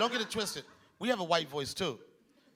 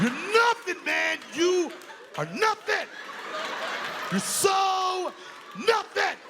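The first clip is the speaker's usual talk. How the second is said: higher mock shouting white guy, hammed-up; angry white guy; 5 semitones higher, slower than usual. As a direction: rant like a mad white guy at a bar. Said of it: "when white guys get mad".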